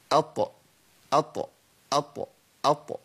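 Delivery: "أط" with a short, measured bounce on the ط; moderate qalqala. Shown as a demonstration. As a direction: release each "أط" moderately, never overdone. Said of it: "عايزين حاجة وسط كده". ("أط" بقلقلة متوسطة من غير زيادة)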